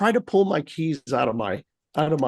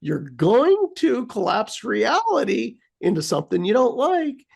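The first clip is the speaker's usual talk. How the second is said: higher, mock stern self-scolding; scolding herself; 5 semitones higher than usual. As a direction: tell yourself off half-jokingly. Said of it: "I'm like".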